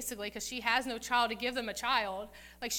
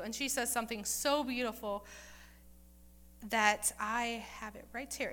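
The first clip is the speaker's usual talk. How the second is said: ordinary delivery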